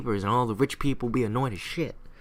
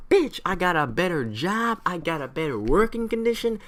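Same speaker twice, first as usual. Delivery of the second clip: higher, swooping mock protest; defiant American sailor; 5 semitones higher than usual. American sailor refusing British service, defiant and higher. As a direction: argue back with pitch raised. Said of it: "American sailors like".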